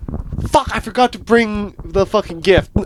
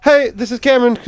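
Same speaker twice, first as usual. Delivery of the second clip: lightly raised phone-answering voice; a hint of customer-service hello; work phone greeting; 5 semitones higher than usual. Shown as a demonstration. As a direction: demonstrate answering the office phone. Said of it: "when you pick up the call".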